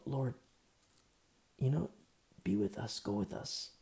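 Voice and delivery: soft, begging, fading to a near whisper; hushed plea. Retold or imitated. Moses begs the Lord to go with Israel, softly pleading. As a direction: ask the Lord softly to stay.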